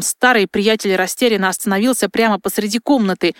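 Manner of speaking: ordinary delivery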